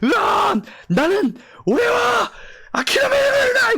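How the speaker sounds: shouted shonen hero battle cry; earnest determined anime hero. Retold or imitated. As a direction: yell it like a fired-up anime lead. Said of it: "소년 열혈 만화 주인공처럼".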